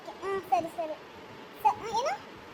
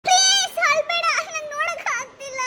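distressed pleading; 5 semitones higher, 4 dB louder than usual. Acted. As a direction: beg a crying brother to stop. Sister begs crying brother to stop.

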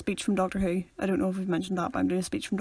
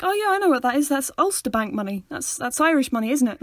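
lightly mocking higher know-it-all quote; higher, eager mimicked voice; imitating someone confidently wrong; 4 semitones higher, 3 dB louder than usual. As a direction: play someone cheerfully sure of the wrong answer. Quoting someone from a video.

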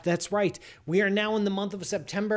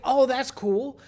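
mock delight; 9 semitones higher, 5 dB louder, slower than usual. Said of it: "I was like".

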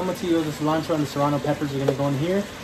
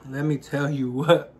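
mouth full; 2 semitones lower, slower than usual. Real, not acted. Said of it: "it's rude to talk with my mouth full".

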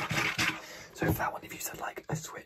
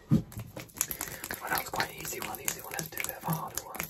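whispering ASMR. Acted. ASMR guessing game whispering.

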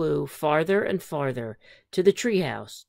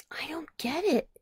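puzzled; 11 semitones higher, 6 dB quieter than usual. Acted. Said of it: "said Pete".

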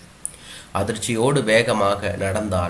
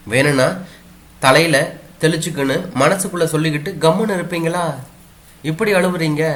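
higher, coaxing consolation; consoling maid; 5 semitones higher than usual. Acted. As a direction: cheer her up gently. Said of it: "சமாதானப்படுத்துவாள்".

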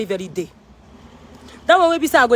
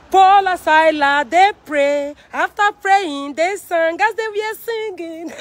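high preaching voice; 6 semitones higher, slower than usual. Real, not acted. Preaching climbing high and slow.

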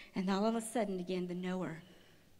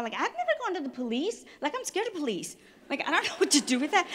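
nervous; 7 semitones higher, 5 dB louder than usual. Real, not acted. Panicked about going to police.

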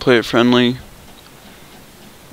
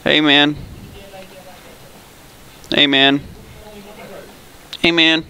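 higher squeaky put-on voice; 6 semitones higher, 5 dB quieter than usual. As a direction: pitch it up into a silly squeak. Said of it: "I'm gonna go with the squeaky voice".

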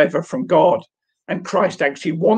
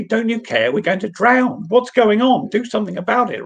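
panicked disciples; 8 semitones higher than usual. Retold or imitated. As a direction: cry out like men about to drown. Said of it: "they shake him awake very rudely".

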